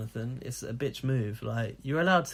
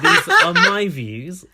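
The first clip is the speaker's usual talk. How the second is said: laughing read; 6 semitones higher, 13 dB louder, slower than usual. Acted. Reading rude email, laughing.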